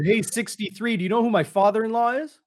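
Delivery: hammed-up brat pulling rank in the huddle; cocky quarterback. Joking about the young quarterback taunting a lineman, mock cocky. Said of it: "went to the huddle and said".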